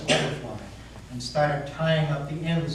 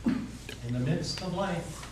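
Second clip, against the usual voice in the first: pious; 2 semitones higher, 3 dB quieter, slower than usual. Acted. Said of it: "kind of pious".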